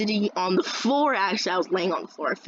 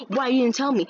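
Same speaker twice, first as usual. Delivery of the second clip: mild mock screech, pitched up; retold screech; 5 semitones higher than usual. Teacher demanding why she wasn't told, mildly screechy imitation. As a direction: imitate a scolding screech at half force. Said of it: "I got the biggest fucking screech".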